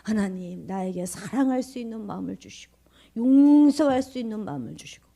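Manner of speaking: a hint of a prim, elegant prayer; mock the polite churchy prayer, lightly; lightly mocking a genteel prayer; refined pious prayer. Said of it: "고상하게 기도합니다".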